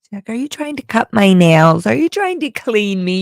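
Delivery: lightly voiced cat; a hint of a wary cat voice; voicing the cat. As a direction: speak for the suspicious kitty. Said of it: "You're doing that voice".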